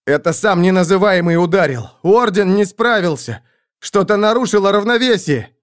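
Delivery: high, urgent cries of alarm; panicked outburst. A narrator's reading. Panicked Roderick tells comrades the Order failed, high agitated cries. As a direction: insist in rising alarm. Panicking soldier explains the disaster.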